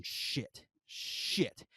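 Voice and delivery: put-on hushed whisper of a naughty kid; sneaky kid whisper. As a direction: breathe the words without voice. Kid whispering swear words.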